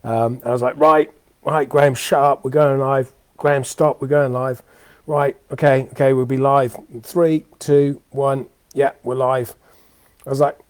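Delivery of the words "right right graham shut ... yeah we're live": a touch louder and pushy, hushing Graham; counting in the live stream, brisk and raised; hurried call to go live. Retold or imitated. To Graham before the live stream, a firm hurry-up call.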